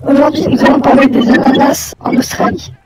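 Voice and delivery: saturated robotic voice filter; crackling voice changer; distorted voice. Pretend. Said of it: "c'est nul, ça sature".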